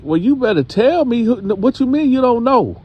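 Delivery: mock-scold like a no-nonsense grandmother; hammed-up angry grandma. Grandma demanding answers.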